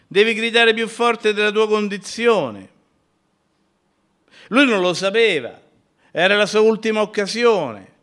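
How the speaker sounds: high, loud exhortation; full-force preaching. Acted. Preacher urging the faithful to pray, at full force. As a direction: lift the congregation with every phrase.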